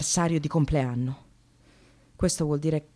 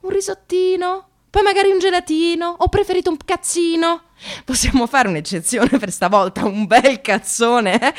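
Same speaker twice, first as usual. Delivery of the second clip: much higher, louder, cutesy parody of colleagues; mock girly chatter; 10 semitones higher, 6 dB louder than usual. Mocking the colleagues' lunch talk in a high, loud, cutesy voice. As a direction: ham up the twee diminutives, then land the crude joke.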